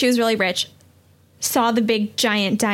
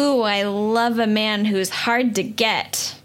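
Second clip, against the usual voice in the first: slow mock seduction; slower than usual. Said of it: "And she says".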